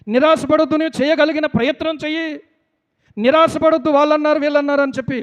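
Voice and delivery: rally the congregation with insistent encouragement; fervent preaching. Real, not acted. Preacher urging believers not to lose hope, fervent preaching.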